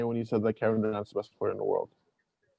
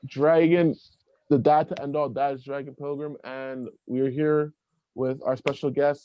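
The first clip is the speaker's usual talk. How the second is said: podcast host intro; 3 semitones higher than usual. Acted.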